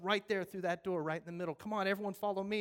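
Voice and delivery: loud directions, hurried at the end; urgent firefighter. Acted. Firefighter leading people to the exit, urgent. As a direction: wave them out the door. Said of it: "And he goes".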